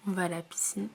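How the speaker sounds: hushed unvoiced whisper. Real, not acted. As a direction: whisper it, voice nearly gone. Whispering, sick voice.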